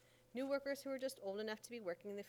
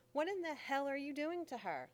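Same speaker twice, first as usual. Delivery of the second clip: loud, higher furious demand; angry shout; 6 semitones higher, 6 dB louder than usual. Acted. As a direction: yell at him to stop, outraged. Mammy catches John teaching.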